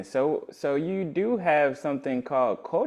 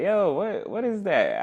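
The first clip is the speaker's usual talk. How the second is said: higher, mock-urgent question; retold eager query; 8 semitones higher, 3 dB louder than usual. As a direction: re-enact stopping someone with a higher-pitched question. Retelling stopping someone to ask.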